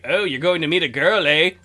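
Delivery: lightly imitated Canadian officer; teasing question with a hint of Canadian accent; Canadian border guard. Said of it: "was a nice Canadian guy".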